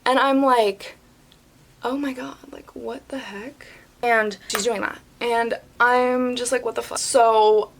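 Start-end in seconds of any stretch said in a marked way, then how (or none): 1.8-3.7 hushed, sinking into a whisper; shocked inner voice. Retold or imitated. Host in shock at the yelling, whispering. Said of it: "like, in shock". 6.6-7.0 soft, cut-off disbelief; stunned muttering to self. Retold or imitated. Host stunned by yelling customer, under the breath.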